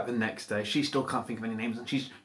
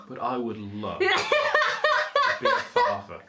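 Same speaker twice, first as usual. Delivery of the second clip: troll voice; 3 semitones lower than usual. Acted. Troll voiced low and soft.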